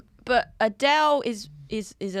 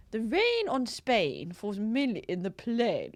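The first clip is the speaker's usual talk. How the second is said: posh accent; 3 dB quieter, slower than usual. Shown as a demonstration. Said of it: "I'm trying to be posh".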